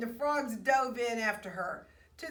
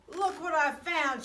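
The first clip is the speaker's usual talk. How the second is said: higher, louder, proud call; triumphant shout; 6 semitones higher, 5 dB louder than usual. A narrator's reading. Jessica showing friends her find, triumphant. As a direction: announce the find with pride. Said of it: "she shouted triumphantly".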